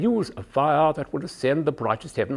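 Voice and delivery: standard English verse with jaws held apart; standard English accent. Shown as a demonstration. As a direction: declaim in upper-class English, teeth kept open. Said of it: "press your fingers in just behind the eye teeth".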